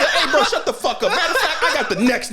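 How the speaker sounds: high, loud cocky voice with a laugh in it; high mock tough guy. Retelling Kuwabara butting in, high cocky laughing voice. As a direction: squeak out a brash boast. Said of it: "He's like".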